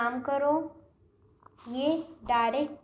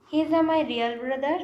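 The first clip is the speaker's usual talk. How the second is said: he is a my real brother drawn out slowly; teacher presenting the error slowly; slow wrong example; 2 semitones higher, 5 dB louder, much slower than usual. Shown as a demonstration. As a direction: read the mistake out slowly. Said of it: "This is a wrong".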